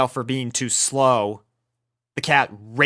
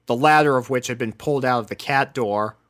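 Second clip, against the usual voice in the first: usual speaking voice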